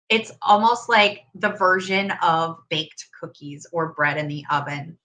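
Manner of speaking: talking with something in mouth; mouth full. Real, not acted. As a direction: speak around something in your mouth. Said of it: "sorry, I have something, like, in my mouth".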